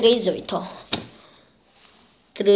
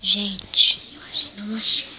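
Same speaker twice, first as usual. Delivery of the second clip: whisper. Real, not acted. Disappointed whisper.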